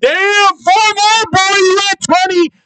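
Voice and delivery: very high, stretched, drawn-out excited yell. Reacting to hearing about episode sixteen: excited yelling. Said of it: "Sorry for yelling".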